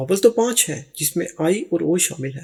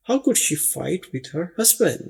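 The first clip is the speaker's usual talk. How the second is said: slow dictation; much slower than usual. Shown as a demonstration. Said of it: "model sentence".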